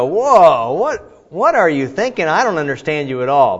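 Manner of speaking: loud, high-pitched acted disbelief; mock bewilderment. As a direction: blurt it like a baffled husband. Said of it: "that wow quickly turns into".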